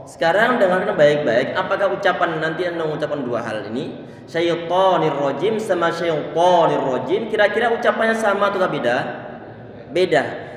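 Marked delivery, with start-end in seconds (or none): 4.3-7.2 syaitonir first thin, then heavy; thin then thick. Shown as a demonstration. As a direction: contrast light to with full to. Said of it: "Yang kedua lebih tebal".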